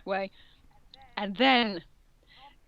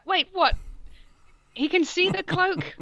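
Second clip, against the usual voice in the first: surprised; 9 semitones higher than usual. Real, not acted. Surprised aside about the plot.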